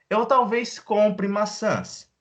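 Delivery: bright slow example. Shown as a demonstration. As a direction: lift it up and slow down. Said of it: "model sentence, raised".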